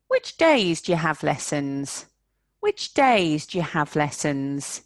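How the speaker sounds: "do you" as "ja"; "Which days ja have lessons"; squashed do you. Shown as a demonstration. Teacher showing "do you" reduced. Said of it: "this becomes ja".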